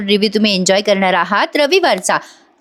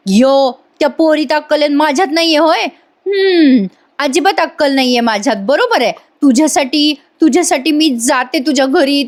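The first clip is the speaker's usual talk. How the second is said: Payal; 5 semitones higher than usual. Retold or imitated. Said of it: "पायल म्हणते".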